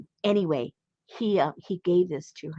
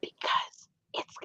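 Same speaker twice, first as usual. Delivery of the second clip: slow, hushed explanation; whisper; 7 dB quieter, slower than usual. Real, not acted. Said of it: "Why are we whispering?".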